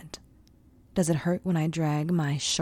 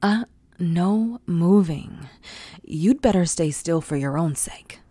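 stern command; 5 dB louder than usual. Acted. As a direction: lay down the law, firm and loud. Dom orders him still.

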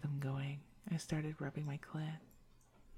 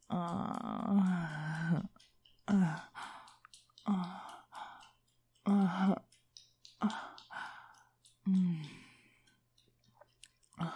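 rising moans, louder each time; rhythmic climax moans; 5 dB louder, much slower than usual. Acted. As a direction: moan through the climax.

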